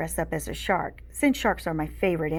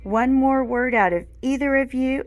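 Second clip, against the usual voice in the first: stern warning; 6 semitones higher, 6 dB louder than usual. A narrator's reading. Teacher warns two pupils.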